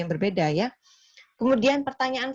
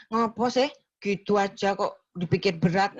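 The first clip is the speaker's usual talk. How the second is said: dismissive. Shown as a demonstration. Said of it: "nggak boleh".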